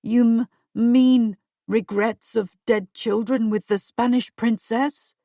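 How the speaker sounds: slow, halting frightened king; stammering. Acted. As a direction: trip over the words, shaken. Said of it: "he stammered".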